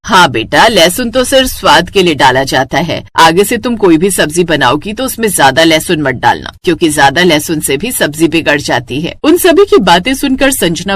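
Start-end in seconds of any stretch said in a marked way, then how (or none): 0.0-9.1 lightly voiced elder, lower pitch; advising mother-in-law. Mother-in-law correcting the bride's use of garlic, advising. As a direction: advise her in a measured lower voice.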